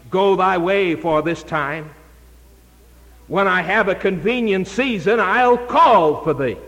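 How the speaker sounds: tremble through a stalling excuse; trembling voice. Acted. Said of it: "he said with a trembling voice".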